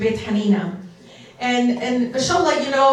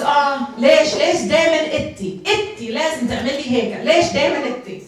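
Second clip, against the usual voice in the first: higher, fast imitation of a mom's lament; exasperated mother; 5 semitones higher, 3 dB louder, much faster than usual. Daughter acts out mother asking why always her, exasperated. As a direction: mimic a mother scolding in exasperation.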